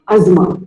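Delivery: asthma as az-ma, with no th sound; asthma, the model way; correct pronunciation. Shown as a demonstration. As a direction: asthma with a silent T and H. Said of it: "The T and H is silent".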